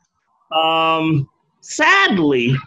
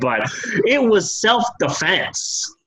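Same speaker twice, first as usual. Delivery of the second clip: mock self-justifying; 4 semitones higher, slower than usual. Bud's claim voiced mockingly.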